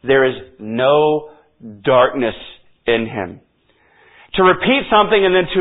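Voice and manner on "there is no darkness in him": "no" drawn out slowly with weight; slow down and lean on "no"; stress on no. Shown as a demonstration. Preacher spelling out the negative clause to listeners, slow stress on no. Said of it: "What is the negative?".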